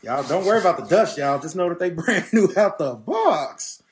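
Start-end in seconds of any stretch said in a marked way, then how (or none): 1.4-3.8 laughing. Real, not acted. Laughs while telling viewers.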